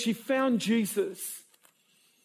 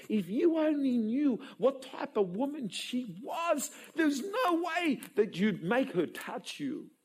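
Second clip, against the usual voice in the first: rebuking; 5 semitones higher than usual. Retold or imitated. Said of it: "they're rebuking Jesus".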